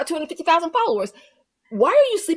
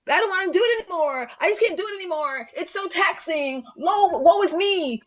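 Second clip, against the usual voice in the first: whiny mock lament; 5 semitones higher than usual. Mocking her whiny complaint.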